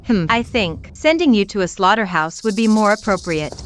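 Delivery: cruel, gloating taunts; reality show fight. Acted. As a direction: sneer and mock her weight. Rival taunts the wife.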